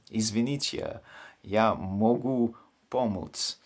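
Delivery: halting, learner's Russian; bad Russian. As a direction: slowly piece together clumsy Russian. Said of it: "in very bad Russian".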